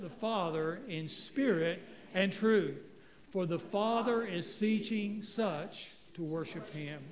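slow, loud, measured reading of scripture. Acted. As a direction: read it out slowly and solemnly, word by word. Congregation reads scripture aloud slowly.

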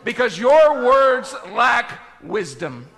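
slow, weighty divine rebuke; God rebuking. Acted. Acts God's rebuke of Job.

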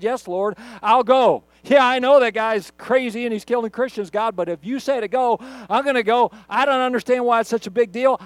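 a disciple vowing obedience, loud and earnest; Ananias answering God. Acted. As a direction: commit to the Lord with rising urgency.

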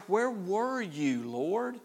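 high, drawn-out lament; wounded, high-pitched reproach; anguished questioning. Acted. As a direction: cry out slowly, questioning why he was absent. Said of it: "they're questioning his concern and his care".

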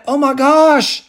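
high, loud burst of astonished joy; amazed joy. Retold or imitated. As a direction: leper suddenly realizing he is healed, high excited exclamation. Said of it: "and one went".

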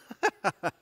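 imitated scoffing chuckle; God's mocking laugh. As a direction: laugh off the boasters as God would. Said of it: "God says".

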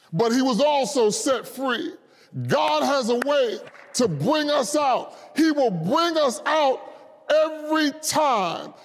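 impassioned, emphatic preaching. Real, not acted. Preacher telling the congregation God brings us out, fervent preaching. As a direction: drive each phrase home to the congregation. Preacher rises to full force.

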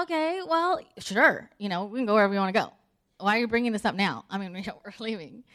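quick, mildly put-out husband; a little irritated. Retold or imitated. Irritated husband reluctantly agrees to go elsewhere, mildly irritated. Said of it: "he's, like, a little irritated".

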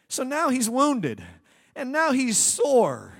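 emphatic preaching. Acted. Preacher dramatizing Adam's wound to the congregation, slow and loud. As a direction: hammer the point home.

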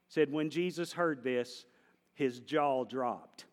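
slow dramatic retelling. Shown as a demonstration. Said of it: "That's the Andy version".

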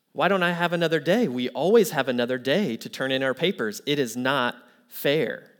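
mock student outrage; upset student. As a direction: complain indignantly, slowing on the last words. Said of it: "the student reacts and is upset".

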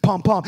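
two pulsing beats like a heart; imitated heartbeat. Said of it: "hear that heartbeat".

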